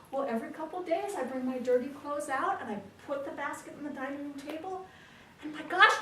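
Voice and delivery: high-pitched, building amazement; naive wonder. Acted. Husband explaining the magic house to wife, amazed.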